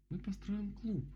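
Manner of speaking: high-pitched, dreamy musing. A narrator's reading. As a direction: say it as a happy daydream. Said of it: "мечтательно произнесла Мишка". (мечтательно, высоким голосом)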